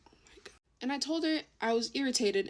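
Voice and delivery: unvoiced irritated whisper. Real, not acted. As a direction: breathe it out, annoyed.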